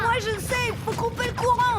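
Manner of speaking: high, urgent piping up; urgent insistence. Acted. Children squabble over broken machine.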